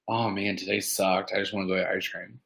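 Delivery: low, soft end-of-bad-day grumble; lightly acted, defeated sigh of a voice; mock dejected. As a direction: play worn down, dropping pitch and volume. Voices someone after a bad day.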